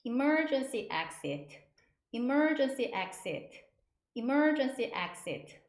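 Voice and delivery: emergency exit said slowly and firmly, with pauses; slow, careful emergency exit, each take separate; repeat-after-me model. Shown as a demonstration. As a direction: drill "emergency exit" for learners to echo. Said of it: "세 번 해보실게요".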